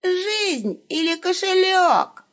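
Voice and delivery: high, slow mock-bandit demand; hammed-up highwayman threat; the wolf plays a robber for the caliph; robber's demand.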